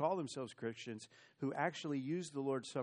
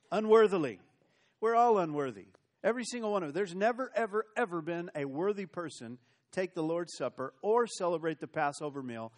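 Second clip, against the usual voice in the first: loud, higher, forceful proclamation; loud preaching; 3 semitones higher, 7 dB louder than usual. Real, not acted. Preacher to his church, booming the point with force. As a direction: hammer it home to the congregation.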